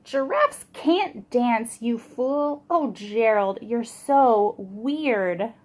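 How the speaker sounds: slow taunting drawl; sneering. Acted. Animals jeering at Gerald, slow mocking taunt. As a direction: drag out the insult, mocking. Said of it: "the animals all sneered".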